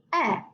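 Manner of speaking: short E, said alone as "eh"; short E sound. Shown as a demonstration. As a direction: isolate the short E vowel for learners. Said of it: "make their short sound".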